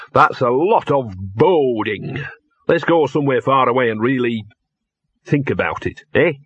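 a touch of a grumbling talking dog; lightly voiced grumbling dog. Narrator voices the dog Gaspode.

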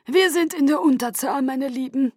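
high, ringing address to the guard; rally the troops grandly; clear commanding voice. A narrator's reading. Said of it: "sprach mit klarer Stimme".

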